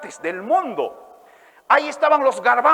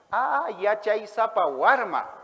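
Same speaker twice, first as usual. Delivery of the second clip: gentle father; 4 dB quieter than usual. Acted. Father answers child in story.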